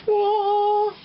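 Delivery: whoa. Real, not acted. Surprised exclamation while cooking.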